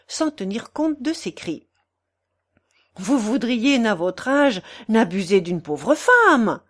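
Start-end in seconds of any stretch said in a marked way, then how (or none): 3.0-6.6 mild, indignant cry; struggling cry. A narrator's reading. Portress struggling in the German's arms, mildly crying out. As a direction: protest with an understated cry. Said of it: "criait la Cibot en se débattant".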